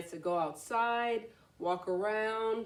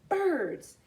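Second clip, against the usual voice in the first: mysterious; 8 semitones higher, 5 dB louder than usual. A narrator's reading. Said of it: "said the frog mysteriously".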